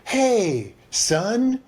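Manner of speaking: a mild hint of a kind father; gentle fatherly. A mild hint of dad gently praising his son. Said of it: "he's not saying it like".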